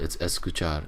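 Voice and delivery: "escuchar" corrected in a Spanish accent; correct Spanish pronunciation. Shown as a demonstration. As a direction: model "escuchar" with a light tapped r. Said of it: "that's how you pronounce it".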